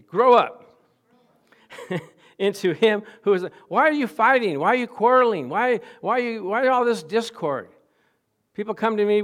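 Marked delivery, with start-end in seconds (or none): 0.0-0.8 loud and high, demanding a response; rousing shout. Acted. Preacher calling the congregation to answer, loud shout. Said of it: "Come on, talk to me". 3.7-7.7 loud and high exhortation; rebuking shout. Acted. Preacher rebuking a quarreling church, loud exhortation.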